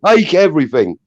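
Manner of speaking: high-pitched retold threat; angry threat. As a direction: threaten the burger man, high and heated. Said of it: "I was so angry".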